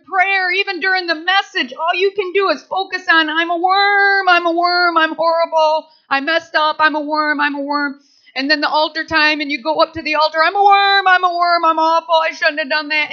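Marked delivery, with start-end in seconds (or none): 3.3-8.0 wailing self-pity. Acted. Acting self-pity at worship. 10.4-13.1 hammed-up altar wailing; wailing self-pity.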